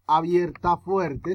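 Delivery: abierta fuerte said slowly, word by word; slow emphasis. Shown as a demonstration. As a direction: drag out abierta fuerte for the class. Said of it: "Que suena duro".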